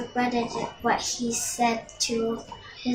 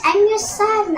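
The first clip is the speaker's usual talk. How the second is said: high and loud, full force on the plea; desperate cry; 9 semitones higher, 6 dB louder than usual. Acted. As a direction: shout it after her with everything. Son cries out to mother.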